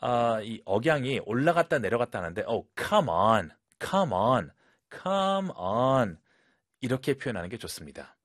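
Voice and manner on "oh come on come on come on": "come on" rising on come, then falling away on on; exasperated up-down tune; rising-falling intonation. Shown as a demonstration. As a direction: swoop up and down through each "come on". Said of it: "이 intonation, 이 톤이 정말 중요해요".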